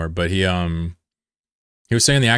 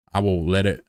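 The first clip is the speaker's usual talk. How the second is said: stretched drawling take; put-on drawl. Shown as a demonstration. Streamer playing with a drawl for chat, put-on drawl. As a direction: try the words in a put-on drawl. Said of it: "until I'm talking like this".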